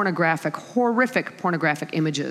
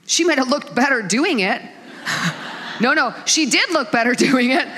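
laughing; 5 semitones higher than usual. Real, not acted.

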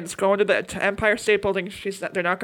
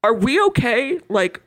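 gentle check-in; 3 semitones higher than usual. Retold or imitated. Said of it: "kind of checks in with his kid".

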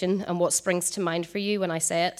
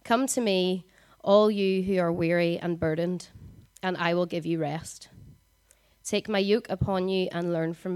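reading more gently this time; slower reading. Shown as a demonstration. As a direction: read it slowly and let it sink in. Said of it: "I'm gonna try and read it slowly".

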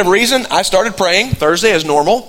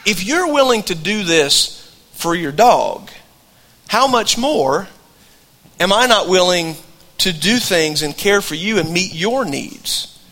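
slow, tender, reassuring words; gentle voice of God; slower than usual. Retold or imitated. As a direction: lay it out slowly like a caring father. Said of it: "like God said to me".

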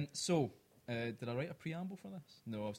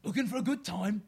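louder, higher Cockney come-on; a cheeky Cockney proposition; hammed-up Cockney accent; 5 semitones higher, 5 dB louder than usual. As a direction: purr it like a Cockney chancer. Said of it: "do it in a Cockney accent".

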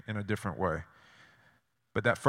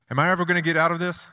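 anxious plea; 6 semitones higher, 5 dB louder, faster than usual. Retold or imitated. Voicing a despairing believer.

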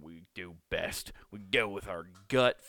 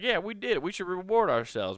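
higher, mock cheering brain; mock excited brain; 10 semitones higher, 3 dB louder than usual. The brain celebrating the run, higher and cheering. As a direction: cheer like a proud little brain. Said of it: "your brain's like".

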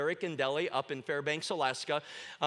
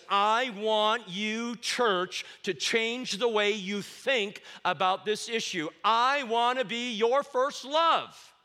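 voicing Jesus; 4 semitones higher, 4 dB louder, slower than usual. Preacher voicing Jesus's plea.

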